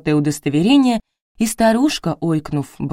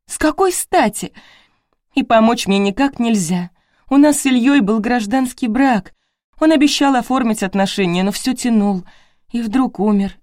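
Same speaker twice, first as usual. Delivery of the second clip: put-on higher, anxious voice of a young widow; distraught young widow; 6 semitones higher, 3 dB louder than usual. A narrator's reading. Widow pours out her fears to the visitors, distraught. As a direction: let the panic climb through the questions.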